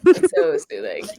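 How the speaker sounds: dropped-low, playful soothing voice; jokey low soothing tone; mock soothing ASMR. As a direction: put on a low ASMR voice as a joke. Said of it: "And with little A S M R".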